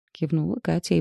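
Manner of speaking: ordinary delivery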